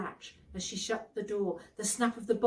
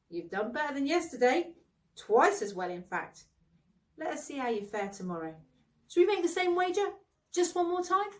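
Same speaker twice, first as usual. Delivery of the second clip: lightly voiced jovial host, rising higher toward the wager; teasing knight; 6 semitones higher, 5 dB louder than usual. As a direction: push the bet with a grin. Bertilac teases Gawain, proposes wager.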